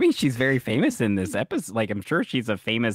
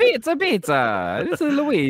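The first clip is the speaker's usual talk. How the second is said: mock Italian stereotype; 13 semitones higher, 5 dB louder than usual. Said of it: "Italian stereotype".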